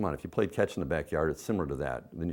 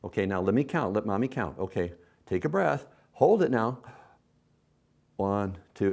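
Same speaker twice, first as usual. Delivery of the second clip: encouraging parent. Shown as a demonstration. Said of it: "and then you count".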